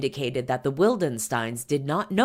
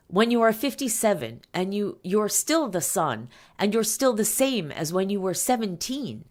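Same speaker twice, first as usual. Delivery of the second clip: lightly voiced French accent, pitched higher; a hint of French accent, lifted in pitch; thick French accent; 7 semitones higher than usual. A narrator's reading. Reader quoting a wife on her husband, light French accent. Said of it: "says Jocelyn in her thick French accent".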